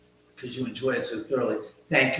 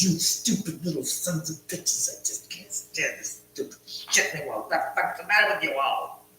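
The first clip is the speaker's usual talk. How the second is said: Lewis Black imitation; 5 semitones higher than usual. Streamer closing his ghost livestream with a lightly voiced Lewis Black rant. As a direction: do a mild Lewis Black rant about stupid people. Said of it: "do my Lewis Black imitation".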